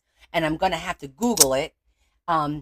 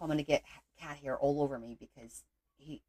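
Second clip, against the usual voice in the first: ordinary talk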